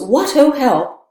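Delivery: loud, high, slow cry from hiding; Polonius crying out. Retold or imitated. Lecturer voicing Polonius crying out from behind, loud and high. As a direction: call out in alarm from behind the curtain. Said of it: "and he goes".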